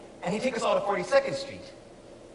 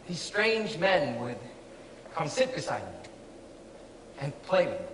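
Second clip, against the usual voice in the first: pained confession; 3 semitones lower, 5 dB quieter than usual. Acted. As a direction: let the words sink lower, haltingly. Painful memory confessed to director.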